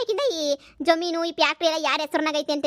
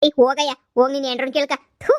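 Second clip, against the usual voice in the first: angry dismissal; 5 dB louder than usual. Acted. Quarrel, dismissing him.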